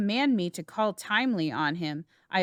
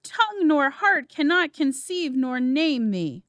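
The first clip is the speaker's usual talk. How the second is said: higher and louder, still reeling; stunned, raised-voice dismay; horrified; 5 semitones higher, 4 dB louder than usual. Acted. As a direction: push the words out through shock. Macduff reels from the discovery.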